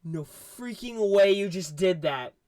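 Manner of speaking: can't believe they just did that; drawn-out shocked outrage; shocked disbelief. Retold or imitated. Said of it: "I immediately was like".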